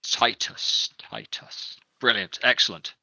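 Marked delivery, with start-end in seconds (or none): 0.0-1.8 whispering. Acted. Captain repeats name quietly.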